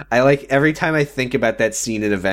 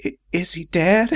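mock serious Betty; 5 semitones higher than usual. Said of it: "in the most serious voice".

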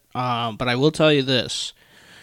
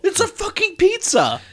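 exasperated whisper. Acted. Exasperated retort.

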